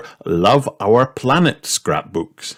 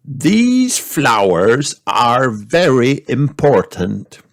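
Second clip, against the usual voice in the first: put-on slow, kindly old grandpa; a patient grandfather explaining; Grandpa Pig voice; 5 semitones higher, slower than usual. A narrator's reading.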